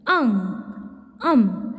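अंग and अम sounded through nose and throat together; nasal demo. Shown as a demonstration. Teacher shows anunasik to students, nasal. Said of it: "नाक और गले दोनों से होता है".

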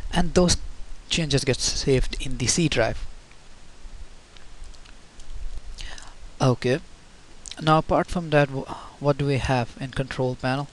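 talking with a post-surgery voice. Real, not acted. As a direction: voice still sore from surgery. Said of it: "Sorry about my voice, I had a surgery".

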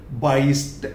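बाईस्ट ending in a crisp unvoiced t; teacher's model of बाईस्ट with a t ending; final t sound. Shown as a demonstration. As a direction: say बाईस्ट with ट at the end, not ड. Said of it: "यहाँ पे मैंने दिया ट".

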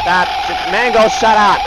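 annoyed scolding; irritated. Real, not acted. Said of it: "This is me being irritated".

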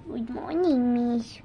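a slow, drawn-out greeting from a pupil; lightly mocking a slow-talking pupil; imitating Isabel. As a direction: draw out the good morning like a sleepy classmate. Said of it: "she talks like this".

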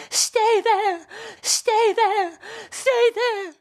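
high, loud, ringing repeats; weeping echo cry. Acted. Echo crying his words back, high ringing. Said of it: "Echo cried back, weeping to utter it".

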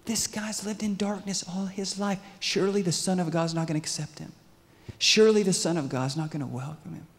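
high-pitched disbelief; acted amazement, held high; incredulous objection. Voices disbelief at the promise.

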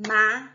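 "Ma-ca-ca" in three isolated beats; separated syllables. Shown as a demonstration. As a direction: say "Ma-ca-ca" one syllable at a time, pausing after each. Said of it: "Quantas vezes eu bati palma?". ("Ma-ca-ca" separado em sílabas, com pausas longas)

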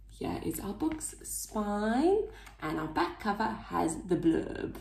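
soft whispered aside; whispering. Real, not acted. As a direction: whisper it to the listener. Whispered aside in read-aloud.

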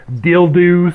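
"dildos" with an oddly drawn-out last syllable; imitating a clueless reading of "dildos"; odd line read. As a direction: stretch the end of "dildos" as if unfamiliar with the word. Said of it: "the next best ri-, line read".

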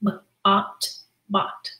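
soft sounding out of B-ot; B-ot sound by sound, then bot; kids' answer. Shown as a demonstration. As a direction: tap out the sounds gently like a child. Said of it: "Say the sounds".

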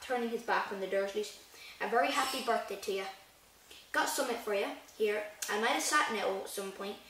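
reading the book aloud, evenly; steady storybook narration; story reading. Acted. Reads chapter aloud in vlog.

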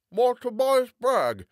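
put-on a cheerful young lawyer greeting a friend; lightly voiced young gent. A narrator's reading.

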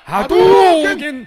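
long, high, booming shout; battle cry. Acted. Customer attacking the tattooist, drawn-out loud yell. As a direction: bellow it like a fighting-game special move.

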